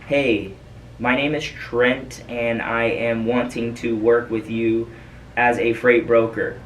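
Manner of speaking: slow, stiff words read off a script; robotic script reading. Shown as a demonstration. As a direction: recite it like a machine reading a page. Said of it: "basically like you reading off a script".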